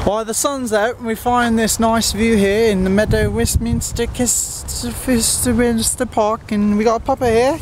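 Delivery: lightly put-on British accent; a hint of a British accent. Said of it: "do you like my British accent?".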